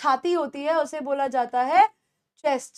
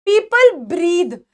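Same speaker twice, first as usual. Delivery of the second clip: slow, clear, raised-voice model read; very slow model sentence; 3 semitones higher, 7 dB louder, much slower than usual. Shown as a demonstration. Teacher modelling breathe for the class, very slow. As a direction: stretch each word for students. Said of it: "teacher models English sentence".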